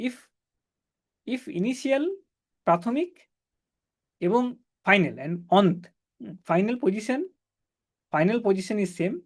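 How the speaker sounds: slow, word by word, for notes; slow dictation. Shown as a demonstration. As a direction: spell it out slowly for copying. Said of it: "dictating a condition to write".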